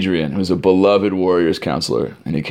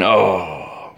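crowd's groaning "oh". Retold or imitated. Everyone reacting to another missed Chipwich catch, mild imitated groan. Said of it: "And everyone".

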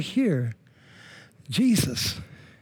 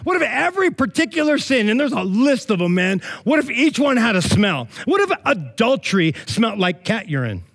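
high, insistent sermon questions; animated preaching; 6 semitones higher than usual. Real, not acted. Preacher asking what if sin had a smell, animated preaching. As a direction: pose it to the room with mounting energy.

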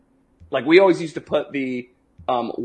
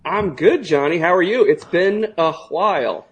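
guttural roar; 4 semitones higher, 5 dB louder than usual. Real, not acted. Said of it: "that guttural roar coming through".

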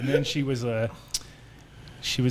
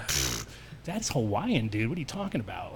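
scoffing; 3 semitones lower, 5 dB quieter than usual. Retold or imitated. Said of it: "and I was all".

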